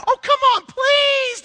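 very high, loud, drawn-out plea; pleading host. Retold or imitated. Disciples begging Jesus to stay, very high and loud. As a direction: beg him sweetly to stay, voice soaring. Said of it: "they're like".

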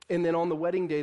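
usual speaking voice

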